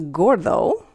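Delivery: gordo opening on G as in gap; hard G. Shown as a demonstration. Teacher giving students a second example, hard G. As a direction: say gordo with a hard G, gor-tho. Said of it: "It has a hard sound".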